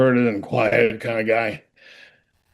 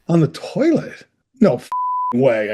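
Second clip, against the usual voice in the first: retold mild indignant disbelief; a little mad. Actor hearing how he dies, mildly indignant. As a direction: balk at it, a touch mad. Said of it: "I get a little mad".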